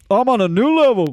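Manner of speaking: high tinny device repeating the line; smart speaker voice. Retold or imitated. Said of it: "you just hear the".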